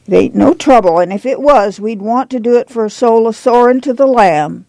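lightly voiced pious visitor; a hint of an insistent believer; devout churchwoman.

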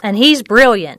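slow, understated pride; a touch of pride, unhurried; proud. A narrator's reading. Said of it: "Maddie said proudly".

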